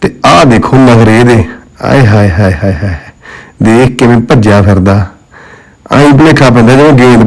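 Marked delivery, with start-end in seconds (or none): 1.8-3.0 theatrical aunty-style aaye haaye; swooning auntie over a cute pet. Pretend. Showing off the dog's tantrums.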